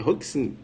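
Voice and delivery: "Roxin" as HOK-sin; correct pronunciation. Shown as a demonstration. He recalls learning the name, correct pronunciation. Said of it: "fala baixinho".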